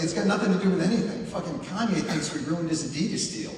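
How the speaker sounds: a fast, loud, ranting grumble; hammed-up aggrieved rant; mock angry complainer. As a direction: mimic someone raging over nothing, laughing. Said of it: "They're always like".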